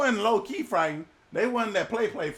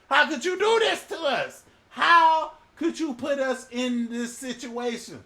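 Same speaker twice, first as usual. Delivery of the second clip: louder, half-laughing accusation; accusing sailor; 4 semitones higher, 4 dB louder than usual. Acted. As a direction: throw the blame at him.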